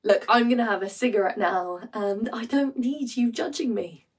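hushed, defensive stage delivery; subdued, defensive monologue character. Acted. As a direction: quietly stand your ground. Performs monologue from Lungs.

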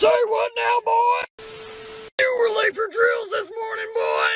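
drill sergeant shout. Acted. Drill sergeant yelling at recruit.

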